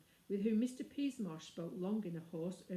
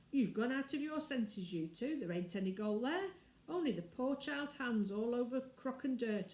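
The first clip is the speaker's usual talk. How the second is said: cockney servant tutting, pitched a bit higher; scolding nursemaid; 3 semitones higher than usual. Acted. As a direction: Martha scolding the policeman.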